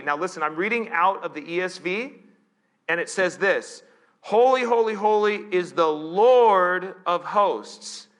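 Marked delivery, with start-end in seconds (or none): 4.2-8.1 loud, ringing scripture proclamation; calling out. Acted. Preacher reads out the seraphim's chorus, calling out. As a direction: call it out high and slow, stretching the praise. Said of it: "They call to one another".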